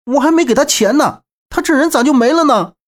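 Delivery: high, dismayed outcry; exclaiming lament. A narrator's reading. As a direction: lament in disbelief at sudden news. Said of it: "连声不禁感慨道".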